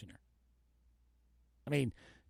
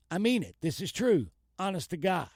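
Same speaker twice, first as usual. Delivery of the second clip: emphatic vow; 4 semitones higher than usual. Retold or imitated. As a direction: swear it like he means it. Quoted gangster swearing earnestly.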